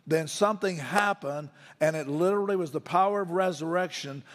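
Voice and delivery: earnest preacher building on key words; emphatic preaching. Real, not acted. Preacher explains resurrection power to the congregation, emphatic preaching. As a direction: drive the point home to the congregation.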